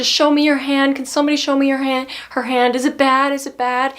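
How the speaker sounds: dog owner frantically asking about the bite, high and loud; frantic lady's voice. Retold or imitated. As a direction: pitch it up, panicking. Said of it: "She was like".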